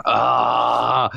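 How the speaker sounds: long, drawn-out groan of dismay; retold groan. Traveller told the honey must be checked, retold groan. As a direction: let out an exasperated "ah".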